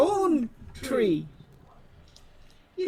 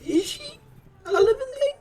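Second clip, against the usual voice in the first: high, laughing question; laughing disbelief; 11 semitones higher, 5 dB louder than usual. Acted.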